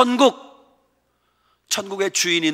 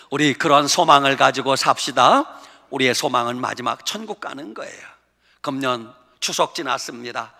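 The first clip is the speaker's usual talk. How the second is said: ordinary talk, nothing marked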